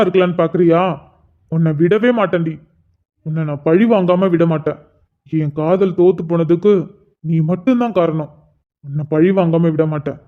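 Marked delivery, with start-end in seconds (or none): 1.5-10.2 low vengeful threat. Acted. Vows revenge on cousin.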